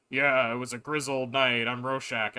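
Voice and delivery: loud, slow imitation of a comic-book narrator; put-on slow, forceful narration; Rorschach. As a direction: lean into a mock vigilante monologue. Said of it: "like, Rorschach, he's like".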